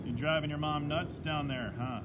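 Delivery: put-on friendly teasing in a Canadian accent. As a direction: lean into a Canadian accent, huh at the end. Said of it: "I've just channeled my inner Canadian, uh, accent there".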